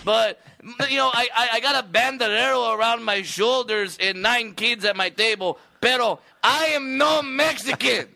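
hammed-up Mexican accent, high and loud; mock Mexican accent. Comic mocking the heckler in a thick Mexican accent. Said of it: "Tone down the Mexicana accent".

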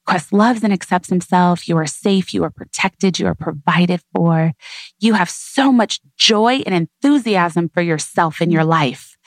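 lightly lifted affirmation, close to her own voice; mild storybook excitement. Shown as a demonstration. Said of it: "with that inflection in your voice, with that excitement".

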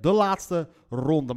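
slow "de laatste ronde" with "ronde" begun on a trill; slowly, rolling the R of "ronde"; demonstrated trilled R in "ronde"; rolled R. Shown as a demonstration. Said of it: "als ik wel begin met de R".

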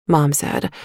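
ordinary delivery, nothing marked

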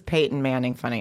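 Peyton Manning said with a dropped middle, pʰeɪtn; Lacey's mispronunciation. Retold or imitated. Wife mispronouncing Peyton to her husband. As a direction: mimic the friend saying Peyton clipped to two beats. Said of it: "I, now I Peyton".

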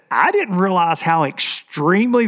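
put-on stretched country-boy disbelief; country drawl. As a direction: quote him in an emphatic Southern country drawl. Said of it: "this is exactly how he put it".

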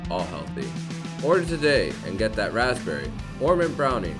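upbeat sponsor read over music; hard sell ad. Acted. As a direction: sell it like a radio ad. Host reads sponsor ad.

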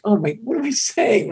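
high, panicky self-scolding; flustered panic. Retold or imitated. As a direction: catch yourself mid-blunder. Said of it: "I'm like".

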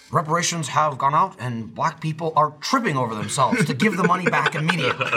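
mock TV news reporter; white reporter. Imitating a Chappelle Show sketch reporter, white newscaster voice. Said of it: "he did the white, like, reporter".

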